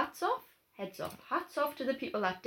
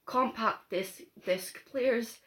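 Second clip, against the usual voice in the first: put-on Scottish accent; slower than usual. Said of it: "do each other's accents".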